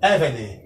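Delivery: Eved said alone, first syllable stressed. Shown as a demonstration. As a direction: model Eved as EH-ve-de with a falling end. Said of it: "a expressão aqui é Eved". (Eved pronunciado com a primeira sílaba tônica)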